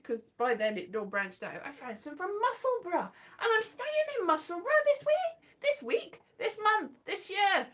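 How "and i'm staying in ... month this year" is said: tag. Real, not acted. Excited at coincidence about Musselburgh.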